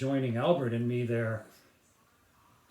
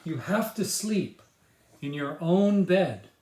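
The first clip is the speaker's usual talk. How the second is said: father's voice; 4 semitones higher, 4 dB louder than usual. Acted. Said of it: "said Chris's father".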